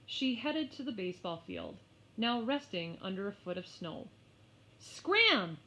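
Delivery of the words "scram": high, loud shooing shout. Acted. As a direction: shout the lamb away. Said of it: "she shouted".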